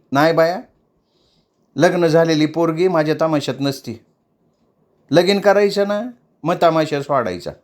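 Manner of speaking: mildly stern mother figure; stern lecturing. Acted. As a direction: lay down the law to the girl. Shevanta answers firmly.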